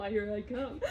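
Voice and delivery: giggling playful threat; laughing. Shown as a demonstration. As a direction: break up laughing while teasing. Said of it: "I know".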